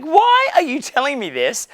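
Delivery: a high, rising hypnotized echo; mock hypnotized girl. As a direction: play the dazed girl, voice lifting into a high question. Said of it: "gets, like, hypnotized".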